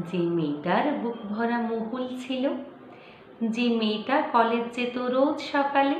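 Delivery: measured, dramatic verse reading with pauses between lines; poem recitation. Acted. Reciting a poem about an acid-attacked girl to viewers, solemn poetry recitation. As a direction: recite it as a grave story-poem, slowing as the tragedy unfolds.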